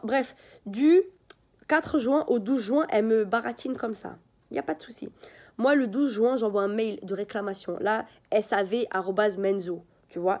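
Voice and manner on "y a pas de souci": whispered under the breath, dry and mocking; a sly whispered aside to the viewers; sarcastic whisper. Whispers to the viewers mocking the seller's empty promises, sarcastic.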